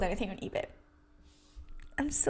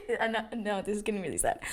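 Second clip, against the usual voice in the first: laughing; 7 dB quieter than usual. Real, not acted. Laughing at own sadness.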